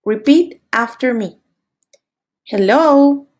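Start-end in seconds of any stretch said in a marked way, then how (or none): 2.5-3.3 teacher modelling the word; model for repeating. Shown as a demonstration. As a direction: clear model word for kids. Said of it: "Repite después de mí".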